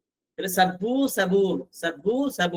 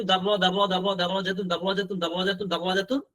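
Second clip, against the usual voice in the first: rhythmic repetition for learners to follow; reading drill. Shown as a demonstration. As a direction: run the word round in an even, unbroken loop. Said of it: "এবার পড়েন একটু". (টানা ছন্দে বারবার পড়ার অনুশীলন)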